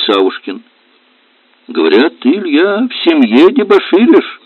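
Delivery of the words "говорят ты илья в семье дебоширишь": high pointed official challenge; stern questioning. Acted. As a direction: press him like a policeman. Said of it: "строго спросил он".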